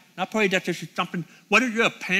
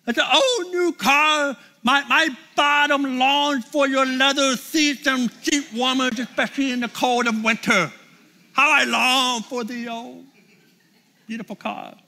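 mock yearning; 3 semitones higher than usual. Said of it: "that sounds pretty stupid".

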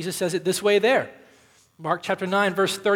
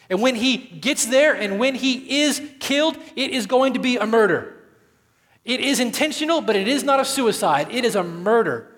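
louder, higher, hammering each phrase; emphatic preaching; 4 semitones higher, 4 dB louder than usual. Real, not acted. Pastor insisting to the congregation that it was murder, forceful. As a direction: press every line home like a verdict. Preacher driving home the point.

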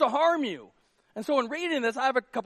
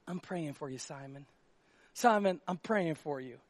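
much softer, lower, syrupy sympathy; pitying Jesus; 7 semitones lower, 7 dB quieter than usual. Pretend. Jesus imagined fussing over Simon, soft, low and pitying. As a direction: murmur it like a fragile-patient visit. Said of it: "imagine that happening right here".

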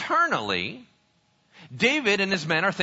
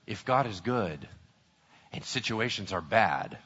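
low, hushed, grave sermon voice; sober, quiet pulpit delivery; solemn preaching; 13 semitones lower, 11 dB quieter than usual. Real, not acted. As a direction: let the bad news land softly. Preacher gives solemn exhortation.

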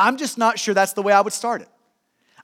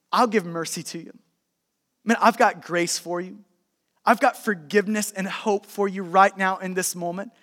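lower, softer, sincere voice; tender forgiveness; 4 semitones lower, 4 dB quieter than usual. Acted. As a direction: gently offer mercy face to face. Imagined words of forgiveness, face to face.

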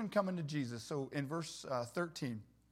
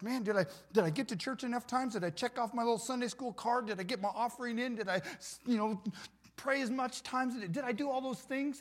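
anxious churchgoer; 5 semitones higher than usual. Retold or imitated. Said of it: "getting into church".

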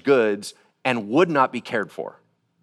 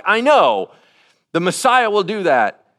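eager reply; 6 semitones higher, 5 dB louder than usual. Retold or imitated. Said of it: "She's like".

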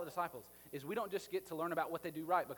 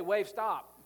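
loud command; 4 semitones higher, 10 dB louder than usual. Acted. Mock commanding the waves.

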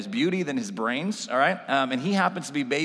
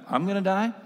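put-on startled little girl; 7 semitones higher than usual.

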